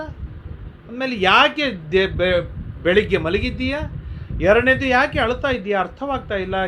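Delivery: a hint of a coaxing foster mother; lightly voiced Bakula. Bakula waking Srinivasa for lunch, lightly voiced coaxing mother. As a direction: gently voice the worried mother coaxing her son. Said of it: "ಆಗ ಬಕುಲಾದೇವಿ ಮತ್ತೆ ಮಾತನಾಡ್ತಾಳೆ".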